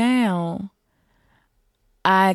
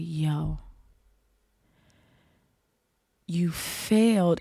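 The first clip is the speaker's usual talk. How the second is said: whispered self-scolding; slower than usual. Retold or imitated. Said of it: "in my mind, I'm like".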